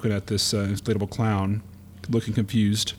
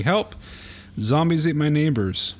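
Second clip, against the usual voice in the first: Nestor crying for help; 3 semitones higher than usual. Acted. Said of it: "Nestor hanging out of a window just at the title saying".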